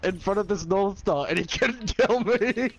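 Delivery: high slow puppet-like voice; Elmo voice. Pretend. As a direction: talk like a giddy little puppet. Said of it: "Why does he sound like Elmo?".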